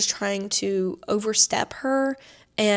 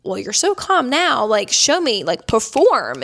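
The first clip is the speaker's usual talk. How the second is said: sarcastic; 4 dB louder, slower than usual. Retold or imitated. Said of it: "kinda what, like, her tone was".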